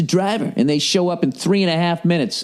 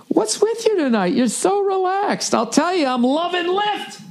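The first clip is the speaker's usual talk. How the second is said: high, slow cheesy commercial voice; eager movie pitch. Acted. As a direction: ham it up like a corny ad actor. Cheesy acted ad dialogue.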